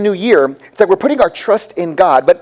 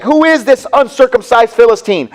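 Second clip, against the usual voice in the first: higher, mildly indignant mock outrage; mad David, retold; 4 semitones higher than usual. Preacher voicing David answering Goliath's taunts, mildly mad. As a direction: act out a touch of offended anger. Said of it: "And David gets mad".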